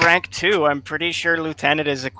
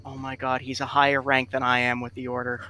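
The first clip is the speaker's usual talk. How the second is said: under his breath; 2 semitones lower, 5 dB quieter than usual. Acted. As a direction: say it quietly, as if not to be heard. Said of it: "Aemon say under his breath".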